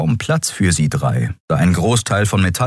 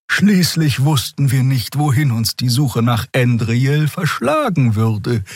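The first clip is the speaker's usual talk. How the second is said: high, lilting healer voice; Xer's voice; 8 semitones higher than usual. Acted. Xer tells Endriel about Janek's preparations, high and patient.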